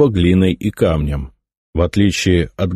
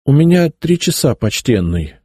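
meek; 8 semitones higher than usual. A narrator's reading. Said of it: "смиренным голосом произнёс я".

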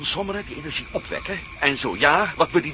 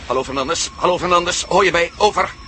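calling louder into the radio; 5 dB louder than usual. Acted. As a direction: try to raise Fernandes on the radio. (roepen via de radio naar Fernandes)

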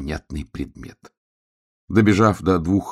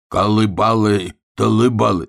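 louder, higher drawn-out gibberish; insistent babbling; 4 semitones higher, 5 dB louder, slower than usual. A narrator's reading. Bear cub trying to get through to the hedgehog, insistent babble. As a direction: push the nonsense syllables out, loud and slow. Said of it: "И опять забубнил".

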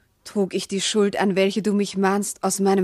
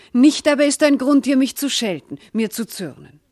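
indignant outburst; 3 semitones higher, 4 dB louder than usual. Acted. Wife protests his reproach.

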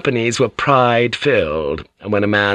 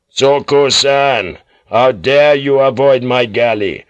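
louder, slow demanding call; calling across water; 3 semitones higher, 5 dB louder, slower than usual. Acted. Lord calling across the waves to the ship, demanding. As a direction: summon them from the other ship.

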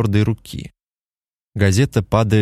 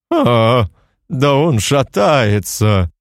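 chuckling giant; 3 semitones higher, much slower than usual. Acted. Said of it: "хохотнул вдруг великан".

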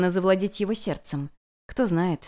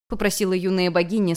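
ordinary delivery, nothing marked

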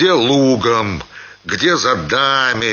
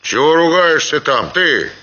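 raised-pitch cross rebuke; angry retort; 6 semitones higher than usual. A narrator's reading. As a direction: snap crossly at the man swearing. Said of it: "отозвался сердито Семён". (сердитый окрик)

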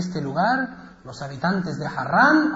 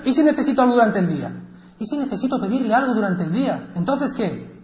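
insistent objection; 5 semitones higher, faster than usual. Acted. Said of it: "y decía".

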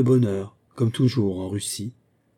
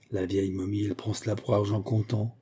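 mocking aside; 6 dB quieter than usual. Girl mocks governess aside.

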